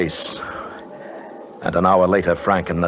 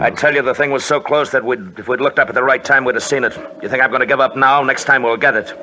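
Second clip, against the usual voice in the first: fired-up; 5 semitones higher, 3 dB louder, faster than usual. Acted. Determined leader argues.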